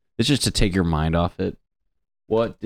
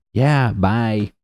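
dismissive doctor; 3 semitones higher than usual. Retold or imitated. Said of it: "doctor dismissing".

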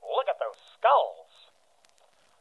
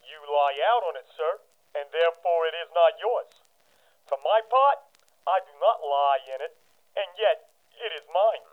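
gravedigger. Acted. Gravedigger figure answers Hamlet.

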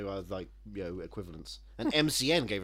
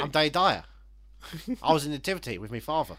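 Danny Dyer impression; 4 semitones higher, 4 dB louder, faster than usual. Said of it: "is that all you can do".

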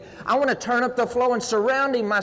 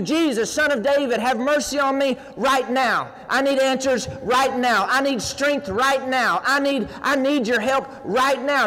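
louder, insistent cry for mercy; mock shouting plea; 3 semitones higher than usual. Blind Bartimaeus shouting to Jesus, urgent and loud. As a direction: cry out over the crowd, urgent. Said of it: "he started shouting out even louder".

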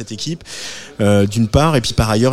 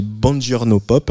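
Buongiorno Pop prononcé à l'italienne, avec un accent italien un peu forcé; un accent italien affreux, assumé et moqueur; accent italien exagéré; slower than usual. Shown as a demonstration. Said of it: "avec mon accent italien affreux". (lancer Buongiorno Pop avec un mauvais accent italien)

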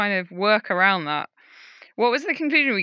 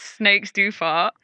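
ordinary delivery

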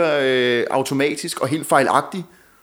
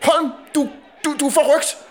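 much higher mock yell of a name; retold shout; 10 semitones higher than usual. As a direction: call him out by surname, high-pitched. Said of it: "og så råbte han sådan".

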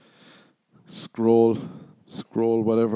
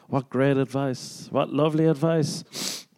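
higher-pitched mock admiration; impressed listener; 5 semitones higher than usual. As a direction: play a listener gushing over advice.

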